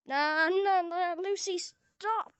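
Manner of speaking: play-protest, rising on stop; protesting call. Pretend. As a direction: call out a mock-urgent stop. Calling out to stop Lucy in game.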